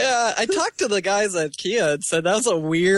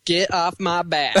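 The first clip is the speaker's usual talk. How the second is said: slow mock comeback in the caller's manner; imitating caller; slower than usual. Teased co-host answers pedicure jab, slow caller imitation. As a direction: draw it out like the caller's sign-off.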